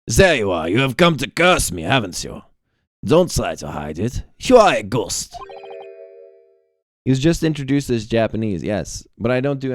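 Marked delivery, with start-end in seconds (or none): 0.1-5.4 put-on accusing German-accented outburst; lightly acted German accent, confronting a ghost. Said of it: "I decided he's German".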